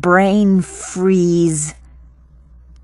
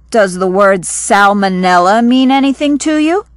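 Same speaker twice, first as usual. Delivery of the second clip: quicker pace, same words; a brisk, faster read of the line; faster reread; faster than usual. Shown as a demonstration. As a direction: read it through briskly, fast. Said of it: "다시 들어봅시다".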